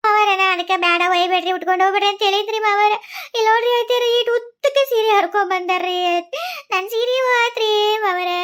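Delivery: loud, tearful complaint to the father-in-law; wailing complaint. Acted.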